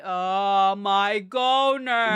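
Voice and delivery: slow drawn-out Oh my goner; drawn-out exclaim. Acted. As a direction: stretch every word.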